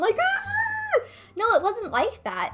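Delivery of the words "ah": high-pitched pretend wail; exaggerated, joking sob-scream, held high; mock crying wail. Joking that the tears weren't that bad, hammed-up wail. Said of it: "I wasn't really crying".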